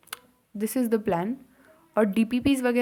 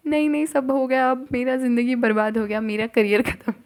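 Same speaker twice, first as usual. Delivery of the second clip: mock despair; 3 semitones higher, 3 dB louder than usual. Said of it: "मैं ऐसे बोल रही हूँ".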